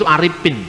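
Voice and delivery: Aripin with a p where the f should be; Aripin, f made into p; Dayak p for f. Shown as a demonstration. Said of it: "Orang Dayak juga begitu". (Aripin diucapkan dengan p)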